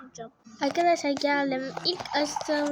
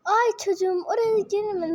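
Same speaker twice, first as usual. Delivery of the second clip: slightly raised, louder fussing mom; 5 semitones higher, 4 dB louder than usual. Pretend. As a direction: warn the child like a worried mother. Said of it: "Anne sesi de yapabiliyorum".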